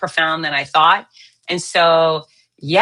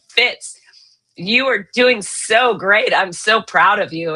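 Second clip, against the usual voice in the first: cheery doctor praise; slower than usual. Retold or imitated. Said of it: "he goes".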